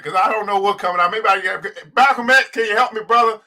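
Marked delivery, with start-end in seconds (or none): 1.9-3.4 rising, prayerful invocation; summoning the ancestors' spirits; calling on ancestors. Real, not acted. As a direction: call each name like a prayer. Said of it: "pay homage to my ancestors".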